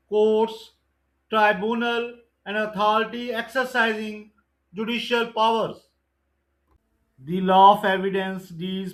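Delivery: slow, deliberate exam-question read; measured MCQ recitation; slow quiz reading. Acted. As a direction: dictate each question and option slowly. Reads MCQ question and answer.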